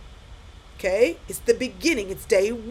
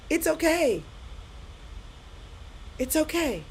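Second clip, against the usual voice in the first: reassuring; 5 semitones higher, 5 dB quieter than usual. Real, not acted. Reassuring listeners who are in tears.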